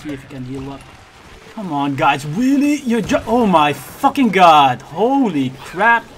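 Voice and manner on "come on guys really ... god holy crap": frustrated shout at teammates; angry yelling. Real, not acted. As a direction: yell it out, exasperated. Teammates failing, yelling at screen.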